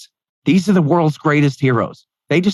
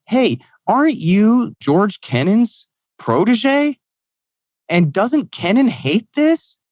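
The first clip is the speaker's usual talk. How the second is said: higher, slow folksy president voice; Bill Clinton; 9 semitones higher, slower than usual. Retold or imitated. Clinton asking his advisor about Kennan, in a slow, high imitation. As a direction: lift the pitch and stretch each word out. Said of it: "Bill Clinton said to him".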